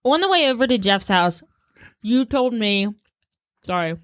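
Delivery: choking on a mint while talking. Real, not acted. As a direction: voice strained around a mint. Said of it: "I'm choking on my mint now".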